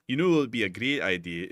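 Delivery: put-on a second try at an Irish accent, voice recoloured; attempted Irish accent. Streamer retrying Irish immigrants' line, shaky Irish accent. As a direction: put on an Irish lilt, still unconvincing. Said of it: "let me think of an Irish accent".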